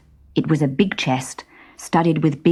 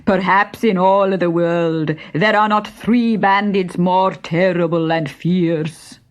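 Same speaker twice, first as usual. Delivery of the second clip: slow, swaggering brag; a lightly voiced bandit boast. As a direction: boast with a puffed-up chest. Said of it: "boasted Benny".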